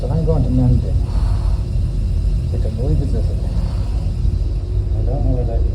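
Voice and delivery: muffled through mask. Real, not acted. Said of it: "hear me through this mask".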